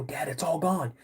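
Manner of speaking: toned-down retold plea; lightly voiced worried kid; kid reporting to dad. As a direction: tell dad the bad news without yelling. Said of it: "I go".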